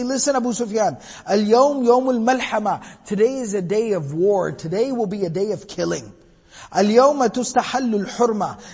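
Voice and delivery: loud, gloating boast at a defeated enemy; taunting trash talk. Retold or imitated. Sa'ad taunts Abu Sufyan, mildly gloating and loud. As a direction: rub the win in his face. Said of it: "what the kids call trash talking".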